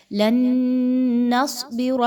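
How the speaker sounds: نصبر with a thick ص and a full ر; teacher models the heavy ص in نصبر; heavy sad. Shown as a demonstration. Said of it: "خوب موٹا کر کے پڑھیے".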